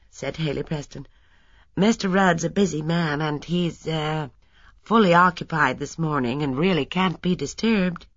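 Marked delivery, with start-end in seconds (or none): 1.8-8.1 lightly voiced, slightly raised assistant putting off a visitor; politely but firmly turn the visitor away; a hint of an officious gatekeeper; busy assistant.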